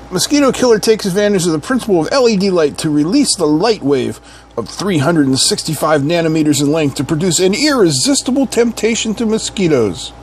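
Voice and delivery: brisk, lively product read; box-copy read. Acted. Reviewer reads product blurb to viewers, lively copy read. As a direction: read the blurb with salesman emphasis.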